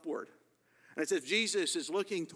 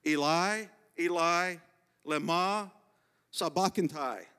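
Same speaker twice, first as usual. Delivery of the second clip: raised-voice cry, each word set apart; Jesus crying out loud; 2 semitones higher, 5 dB louder than usual. Retold or imitated. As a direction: call it out loudly, word by word. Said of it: "Jesus cried out in a loud voice".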